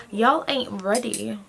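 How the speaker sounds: slow mock American drawl; bad American accent. Vlogger hamming it up, bad American accent. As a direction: drag it out in a badly faked American accent. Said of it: "My American accent is so shit".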